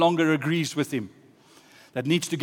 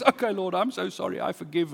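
broken, contrite plea; 4 semitones higher than usual. Acted. Jonah breaks and prays to the Lord, contrite. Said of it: "eventually he breaks and he says".

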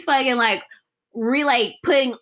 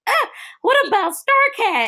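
mock pleading; 12 semitones higher than usual. Quoting Chiclet's plea.

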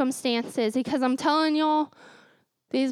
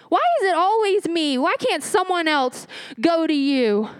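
mock angry teen. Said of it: "I would get so mad".

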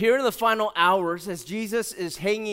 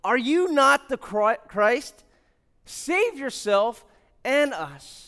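higher, drawn-out mock taunt; 4 semitones higher, 3 dB louder, slower than usual. First criminal taunts Jesus on the cross, mocking. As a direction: taunt him slowly, pitched up. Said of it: "in a mocking voice".

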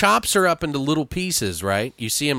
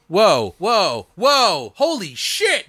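escalating whoas, climbing ever higher; mind-blown; 6 semitones higher, much slower than usual. Acted. Viewer's mind overwhelmed by the film's chain of events, mind-blown. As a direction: build each whoa up to a high-pitched holy shit. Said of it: "your whole mind is like".

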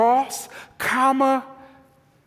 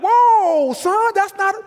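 surprised parent; 9 semitones higher than usual. Retold or imitated. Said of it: "You're like".

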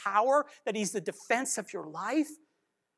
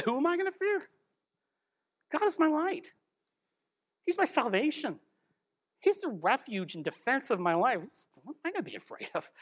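confident David; 2 semitones higher than usual. Retold or imitated. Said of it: "confident like David here".

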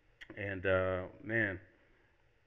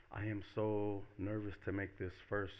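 softer, understated retold apology; repentant apology; 5 dB quieter than usual. Woman apologizing to the man in the film, mildly repentant. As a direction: apologize contritely, acting lightly. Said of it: "like, repenting".

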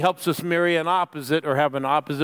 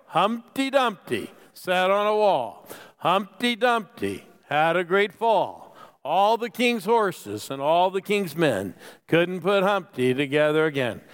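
slow, solemn reading as if scripture; mock solemn recital; slower than usual. Shown as a demonstration. Preacher leading the congregation in a joke verse, mock-solemn. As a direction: recite it slowly like a holy verse. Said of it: "Are you ready for the great Bible verse?".

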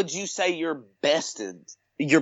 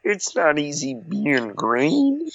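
slow, lightly voiced frog puppet; a hint of frog impression; Kermit the Frog; 2 semitones lower, slower than usual. Shown as a demonstration. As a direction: stretch it out like a puppet. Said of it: "can do a Kermit the Frog".

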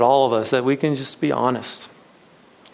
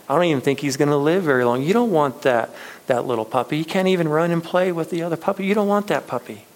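insistent shopkeeper; 4 semitones higher, much faster than usual. Acted. Shop owner warns boy off.

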